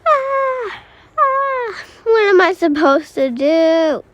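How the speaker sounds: high, loud mock panic with a cry; pretend panic. Kid acts trapped player begging to escape, mock panic. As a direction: beg to be let out, hammed-up. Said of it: "I was just gonna".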